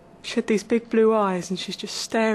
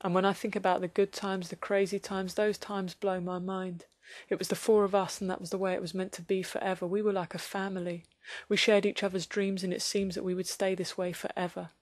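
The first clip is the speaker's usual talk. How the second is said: wistful nostalgia; 3 semitones lower, 4 dB quieter than usual. Acted. Nostalgic reflective monologue.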